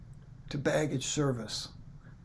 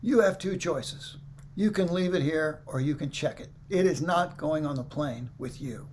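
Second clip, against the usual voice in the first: ice cold. Retold or imitated. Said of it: "Ice cold".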